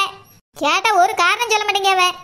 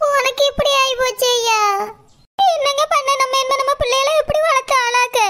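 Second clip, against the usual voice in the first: tearful plea, a little raised, slowing on the question; crying wife. Acted. Wife despairing to her husband over the future, crying. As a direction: sob out the worry about the children. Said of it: "நீ அழாத சரோ".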